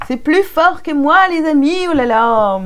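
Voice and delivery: high, giggly exclamation; helpless amusement. Real, not acted. Reader admitting to her friends it's uncontrollable, amused. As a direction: plead that you can't help it. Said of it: "qui m'a fait rire".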